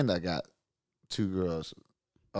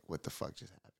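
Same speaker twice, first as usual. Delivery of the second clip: breathless whisper; whispered disbelief; 3 semitones lower, 21 dB quieter than usual. Retold or imitated. Guest alone after the scare, whispering in disbelief. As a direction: mutter it under your breath in shock.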